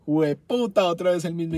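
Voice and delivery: loud frustrated curse; exasperated anger. Real, not acted. Customer hit by the same problem twice, furious. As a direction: burst out cursing, fed up. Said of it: "yo estaba que mataba a alguien".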